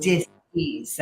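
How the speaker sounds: "dis-ease" said as two parts, dis then ease; dis-ease split. Shown as a demonstration. Explaining what the word means, "dis-ease" split in two. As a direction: break "dis-ease" apart, stress on dis. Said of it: "the word dis-ease just means".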